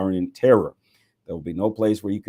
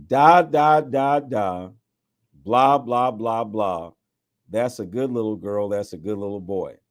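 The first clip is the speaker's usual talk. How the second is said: mock baby talk; 2 semitones higher, 4 dB louder, slower than usual. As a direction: coo at them like a parent to an infant. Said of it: "God will speak to this people in baby talk".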